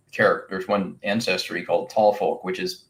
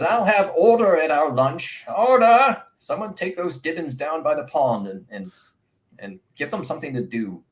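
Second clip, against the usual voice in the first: high, loud command that fades; calling for order; 8 semitones higher, 3 dB louder than usual. Acted. GM voicing the abbess calling order at lunch, loud then fading. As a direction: rap the table and call the room to order.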